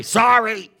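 loud, high, grudging shout of sorry; insincere sorry. Retold or imitated. Child forced to apologise, shouting a grudging sorry. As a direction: bark out a fake apology. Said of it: "Doesn't really sound sorry".

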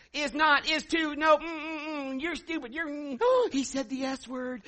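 put-on high, loud whiny child voices; squabbling kids. Parent retelling her kids' fight, whiny high child voices. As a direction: play the bickering kids, tattling.

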